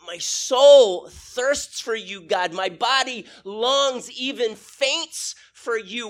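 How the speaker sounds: slow, drawn-out, yearning psalm; impassioned scripture recital. Acted. Preacher reciting a psalm to the church, slow yearning recital. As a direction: stretch the key words, rising loud on "soul".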